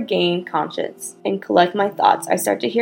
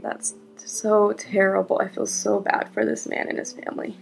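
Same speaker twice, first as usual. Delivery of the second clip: real crying; 2 semitones higher than usual. Real, not acted. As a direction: choke up while apologising. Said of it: "I'm crying".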